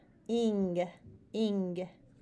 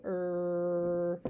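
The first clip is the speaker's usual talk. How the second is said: lightly voiced growling bear saying er; slow bear-like er; growly bear voice. Shown as a demonstration. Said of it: "the three bears".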